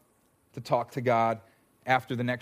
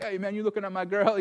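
put-on jealous boyfriend; 6 semitones higher than usual.

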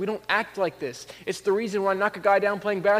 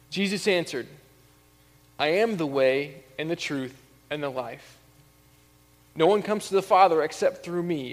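measured reading of the Gospel passage; scripture reading. Acted. Pastor reads John fourteen to the congregation, measured and solemn.

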